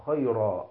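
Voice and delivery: خيرا ending in a long open -aa, no n; tanween stopped as alif. Shown as a demonstration. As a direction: say خيرا as khayraa. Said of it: "أبدل ألفا".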